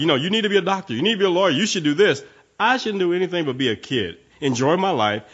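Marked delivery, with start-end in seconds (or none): 0.2-2.2 put-on higher, lecturing a child as a bossy parent; a pushy parent's orders, pitched up; mock pushy parent. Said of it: "So it's like, you know".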